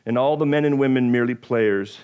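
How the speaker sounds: dramatic poem reading; Shakespeare recital. Shown as a demonstration. Pastor reciting Shakespeare to congregation, dramatic reading. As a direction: recite it like a stage actor. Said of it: "here goes my Shakespeare as best that I can do".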